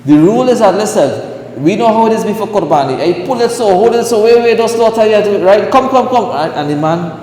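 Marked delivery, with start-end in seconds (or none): 3.0-6.3 higher, urgent calling out to helpers; hurried, higher calls to hold the animal; mock hurried orders. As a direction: imitate the rushed shouting at the slaughter. Mimics the rush before slaughter.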